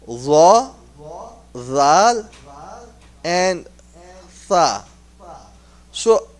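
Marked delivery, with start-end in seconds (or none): 0.1-4.8 "Ra, Zal, and Tha" one by one, tongue edge on the top teeth; letter demonstration. Shown as a demonstration. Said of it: "we will be able to pronounce".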